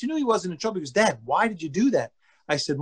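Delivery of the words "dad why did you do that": mildly puzzled, gentle question; understated, lightly imitated son; calm and nice. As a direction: ask it calmly, without challenge. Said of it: "very calmly and nice".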